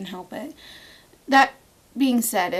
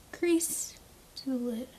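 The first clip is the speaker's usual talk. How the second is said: sing-song; 3 semitones higher, 6 dB quieter, slower than usual. Shown as a demonstration. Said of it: "repeated phrase".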